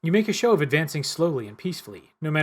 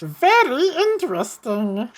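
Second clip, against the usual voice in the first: higher, louder, slow and uneven, testing each word; strange halting voice; 10 semitones higher, 8 dB louder, slower than usual. Acted. Game master voicing the stranger to the player, halting and odd. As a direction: speak like someone unused to talking. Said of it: "His voice has a strange, uneven quality".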